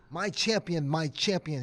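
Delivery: lightly voiced elder statesman hailing someone; a hint of a delighted host; Nelson Mandela. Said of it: "He said".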